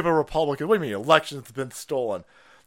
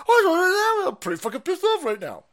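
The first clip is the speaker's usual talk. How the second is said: mock crying; 13 semitones higher, 4 dB louder than usual. Parodies clip guy's complaint.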